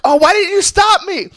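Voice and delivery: put-on high, loud whiny drunken plea; panicked drunk friend. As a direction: whine it like a drunk begging. Drunk friend blames his friends.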